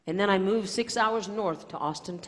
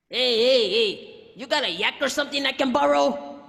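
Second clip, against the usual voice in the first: louder calling-out voice; imitating young man; 6 semitones higher, 6 dB louder than usual. Stranger at the car, loud casual hey. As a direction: call over casually like a stranger on the roadside. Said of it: "young Hispanic male".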